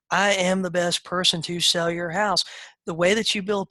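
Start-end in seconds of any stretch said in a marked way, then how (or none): 0.1-2.4 confident posture. Shown as a demonstration. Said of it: "the posture is".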